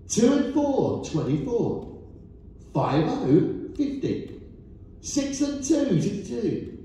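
rising call, then number settles down; bingo caller. Acted. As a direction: sing out each number to the hall. Calling bingo numbers to hall.

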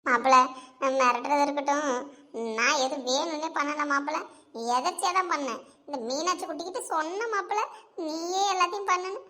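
a scared aunt pleading, babbling her confession; lightly voiced fearful mother-in-law; frightened aunt. Frightened aunt confessing to her son-in-law, pleading and babbling.

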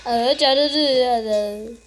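loud hurry-up cheering; excited urging. Real, not acted. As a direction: push it, hurry, hurry. Urging himself on in game.

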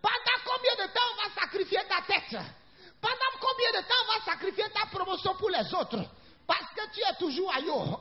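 rousing pulpit voice; animated preaching. Real, not acted. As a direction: preach it with drive, phrase by phrase. Preaches with raised voice.

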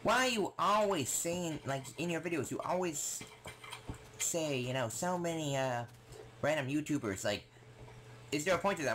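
high, nagging mock voice; imitating sister. Sister questioning his YouTuber references, high imitated voice. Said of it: "my sister's always like".

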